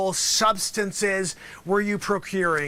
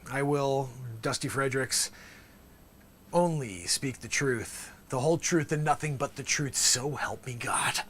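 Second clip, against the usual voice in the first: solemn oath; 5 semitones lower, 5 dB quieter than usual. Shown as a demonstration. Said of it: "say it with the same inference".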